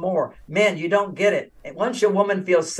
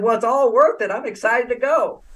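lightly excited wife; 4 semitones higher than usual. Retold or imitated. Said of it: "she said".

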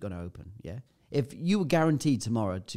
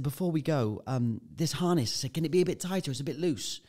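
shouting over wind; 4 semitones higher than usual. Retold or imitated. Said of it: "'cause obviously you gotta shout, it's so loud".

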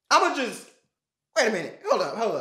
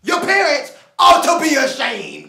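loud sharp voice. Acted. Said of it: "Who the hell you talking to?".

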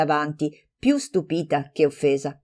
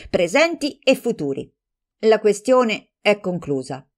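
heated defence; 5 semitones higher, 4 dB louder than usual. Acted. Heated quarrel between friends.

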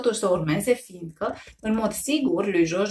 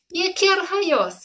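amused; 10 semitones higher, 3 dB louder, much slower than usual. A narrator's reading. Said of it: "hohoti Jojo".

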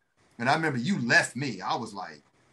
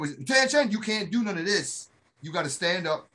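sergeant's shout; 3 semitones higher than usual. Retold or imitated.

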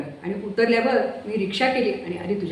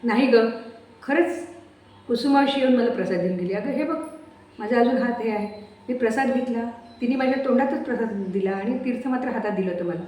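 higher, on the verge of crying; near tears; 4 semitones higher than usual. Acted. Mai, close to tears, pleads with her daughter-in-law. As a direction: plead to be believed, almost weeping. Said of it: "त्या रडवेल्या झाल्या".

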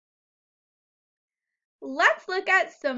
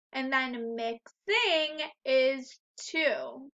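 slow syllables; slower than usual. Shown as a demonstration. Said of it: "Mixing has two syllables".

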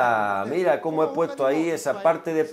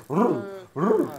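mock growl. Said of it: "le dije a Norman que hiciese".

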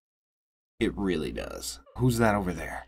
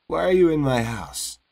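alarmed woman; 5 semitones higher than usual. Acted. Woman confronts intruder in her house.

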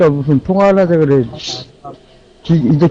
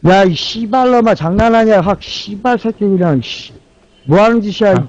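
화난 욕설; 4 semitones higher than usual. Real, not acted. 화장실 간다는 팀원에게 욕설.

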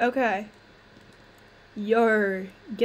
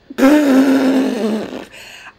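loud relieved exhale; 9 dB louder than usual. Real, not acted. Relief after the glitch ends.

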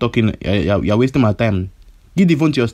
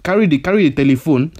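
angry; 3 semitones higher than usual. Acted. Angrily repeating his demand.

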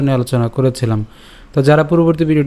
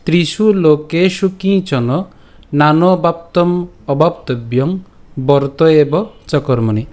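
slow, measured Sanskrit shloka recitation; verse recitation; slower than usual. Shown as a demonstration. Teacher presenting today's Gita verse, slow recitation. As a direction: draw out each word of the verse. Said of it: "আজকের শ্লোকটি হল".

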